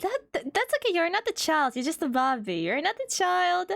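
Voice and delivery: high, teasing comfort; sing-song mock comfort; mock reassuring. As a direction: pat him on the head with words.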